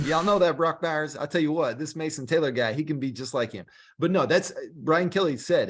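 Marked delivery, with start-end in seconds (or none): 0.1-3.7 higher, louder hammed-up Cajun accent; fake Cajun accent. Mimicking Brian Kelly hyping his tight end in fake Cajun accent. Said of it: "in a really fake, um, Cajun accent".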